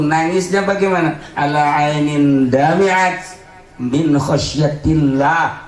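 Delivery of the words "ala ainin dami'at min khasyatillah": slow chanted Arabic; slow solemn Arabic chant; slow recitation. Real, not acted. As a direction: intone the hadith slowly.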